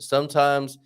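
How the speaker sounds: halting mock Southern US accent; bad Southern accent. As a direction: attempt a Southern accent and falter. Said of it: "I can't do this Southern accent".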